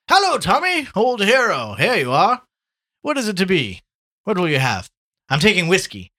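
high, loud, breezy greeting; hearty Gallagher, hailing a friend. Acted. Gallagher hails his old friend Tommy at the bar, hearty. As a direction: boom it out like a back-slapping bar regular.

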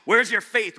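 hammed-up stern rebuke; mock rebuke. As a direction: scold loudly in pretend reproach. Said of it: "Does he rebuke her?".

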